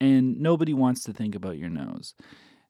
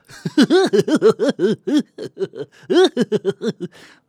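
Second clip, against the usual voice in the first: loud high cartoony laugh; clown laugh; 13 semitones higher, 13 dB louder than usual. Shown as a demonstration. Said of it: "a clown type laugh".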